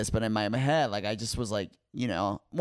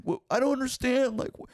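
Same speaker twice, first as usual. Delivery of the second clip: whiny crying plea; 13 semitones higher than usual. Retold or imitated. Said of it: "I start crying".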